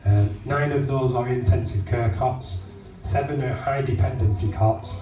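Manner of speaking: hoarse, rough throat; talking through a sore croaky throat. Real, not acted. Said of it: "I'm a bit croaky".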